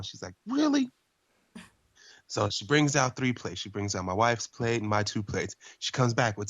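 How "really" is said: high, incredulous Southern lady voice; mock Southern waitress, pitched way up. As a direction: squeak it like a doubting Southern waitress. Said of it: "She has a really southern accent".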